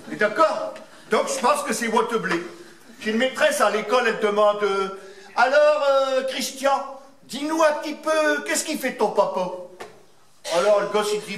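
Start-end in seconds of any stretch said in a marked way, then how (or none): 5.4-9.5 teacher. Retold or imitated. Teacher voiced in a joke.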